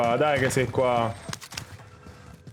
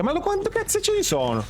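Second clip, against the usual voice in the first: exasperated disbelief. Real, not acted. Overwhelmed by enemies.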